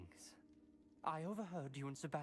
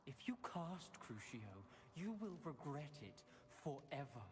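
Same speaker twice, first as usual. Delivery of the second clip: grave warning; 4 dB quieter than usual. Acted. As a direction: warn them gravely, letting each phrase land. Grave warning before leaving.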